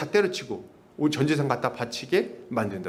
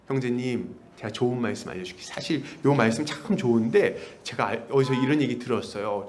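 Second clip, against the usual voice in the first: smooth recruiter; 5 semitones lower than usual. Retold or imitated. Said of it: "이러면서 쫙 아주 그럴듯하지".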